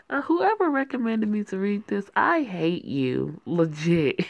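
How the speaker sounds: loud complaint, drawing out the hate; exasperated rant. Real, not acted. Reader to whoever recommended the book, exasperated. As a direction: groan it at whoever picked this.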